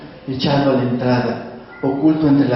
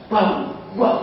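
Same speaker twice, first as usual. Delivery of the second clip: raspy dog bark; 7 semitones higher than usual. Acted. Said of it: "su voz rasposa".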